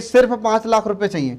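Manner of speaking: सिर्फ lifted and pressed before पाँच लाख रुपए चाहिए; stress on सिर्फ. Shown as a demonstration. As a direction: lean into सिर्फ. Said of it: "मतलब बस इतना ही चाहिए". (सिर्फ पर ज़ोर)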